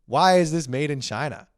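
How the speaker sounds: put-on a puzzled child pleading why; confused little kid. Grown man voicing himself as a kid puzzled by his toy, high and whiny. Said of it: "you'd be like".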